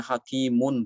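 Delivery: hakimun with the final n sounded; wrong tanwin. Shown as a demonstration. Teacher giving the forbidden reading. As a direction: keep the nun in hakimun. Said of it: "tidak boleh dibacanya".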